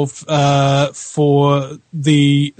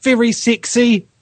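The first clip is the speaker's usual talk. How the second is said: mock vain; 7 semitones higher, slower than usual. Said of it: "very nice accent, don't I".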